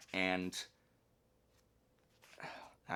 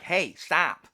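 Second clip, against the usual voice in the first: higher, louder call to stop; raised voice: hey, stop; firm call; 9 semitones higher, 12 dB louder than usual. Shown as a demonstration. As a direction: call out to make someone stop. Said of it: "Like that".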